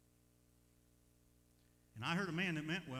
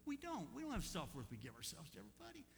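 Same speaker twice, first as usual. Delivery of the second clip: affectionate, kindly; 5 semitones higher, 3 dB quieter than usual. Real, not acted. Preacher repeating a hard truth to church, affectionately and kindly. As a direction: ease a hard truth out gently. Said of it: "I say that so affectionately and kindly".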